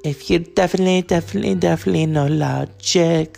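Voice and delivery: Impression of a singer. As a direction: imitate the singer's quirky phrasing. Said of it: "as Bjork said".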